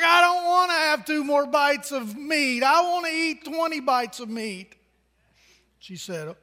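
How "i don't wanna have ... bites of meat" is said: a hint of a defiant kid; little boy protesting. Pastor voicing the boy who won't eat, mildly whiny.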